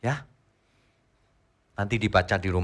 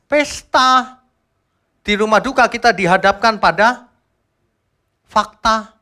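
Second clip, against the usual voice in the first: preaching loudly; 10 semitones higher, 8 dB louder, slower than usual. Real, not acted. Preacher quotes scripture forcefully.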